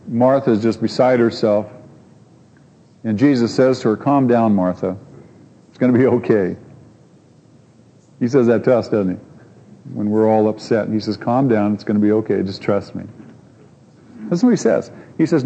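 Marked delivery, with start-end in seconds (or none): 4.0-6.6 low-key, soothing retold words; calm reassurance. Jesus to frantic Martha, calm reassurance. 11.2-13.0 calm reassurance. Retold or imitated. Jesus to us when we're upset, calm reassurance.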